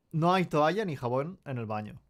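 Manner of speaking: stiff robotic reading, like a robot. Real, not acted. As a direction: read it mechanically like a robot. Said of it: "I read that like a robot".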